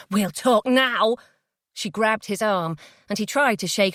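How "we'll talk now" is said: firm insistence. Acted. Felicity insisting.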